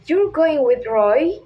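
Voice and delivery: doubting question, dipping then rising on ROY; Jim. Acted. Teacher quoting Jim to Pam, doubtful rise on ROY. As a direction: hidden surprise, voice swinging up on ROY. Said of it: "show hidden surprise or doubt".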